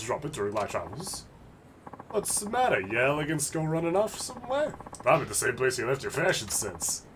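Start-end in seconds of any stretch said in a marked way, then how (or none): 2.1-7.1 mocking street thug. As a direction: jeer like a cocky thug. Thug character voice.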